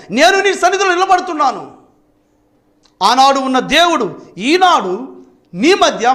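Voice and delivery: a rising, slowed sermon climb; impassioned preaching. Acted. (ఉద్వేగంతో నెమ్మదిగా బోధించడం)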